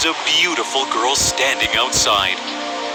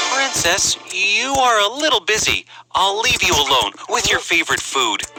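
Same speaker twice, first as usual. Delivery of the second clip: higher-pitched prince voice; polite prince taking leave; 6 semitones higher than usual. Acted. Prince leaves the princess to her food, courteous. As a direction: excuse yourself courteously, pitched up.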